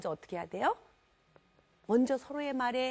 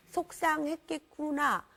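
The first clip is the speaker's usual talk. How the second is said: slow, drawn-out sympathy; slow empathic reflection; 4 semitones higher, slower than usual. Shown as a demonstration. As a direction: let the feeling sink in slowly. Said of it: "한번 해보세요".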